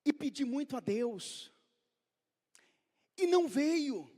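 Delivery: ordinary talk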